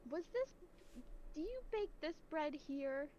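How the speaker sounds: customer voice. Retold or imitated. Mimicking customers.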